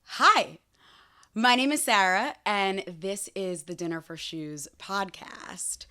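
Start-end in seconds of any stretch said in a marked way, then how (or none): 2.5-5.9 hushed, slow whisper; whispered intro. Acted. Host whispering the podcast name to listeners.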